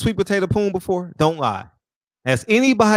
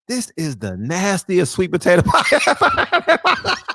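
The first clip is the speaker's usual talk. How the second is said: cracking up mid-quote; 2 semitones higher than usual. Retold or imitated. Retold punchline breaking into laughter.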